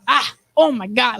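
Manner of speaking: exasperated sigh into the words; mock giving up on oneself; imitated frustration. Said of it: "so frustrated with himself".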